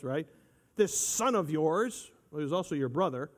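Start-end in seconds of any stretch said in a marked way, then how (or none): 0.7-2.1 slow, drawn-out sneer at son; lightly mocking the brother's contempt; mock disdain. Preacher mimicking the older brother's scorn, slow sneer. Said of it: "Notice how he refers to him as".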